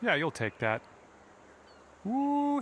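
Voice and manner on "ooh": excited ooh. Real, not acted. Ball rolls near the hole.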